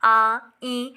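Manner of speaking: आ and ई sounded with air through the nose; nasal vowel demo. Shown as a demonstration. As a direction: let आ and ई ring through the nose. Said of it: "नाक से भी निकलती है".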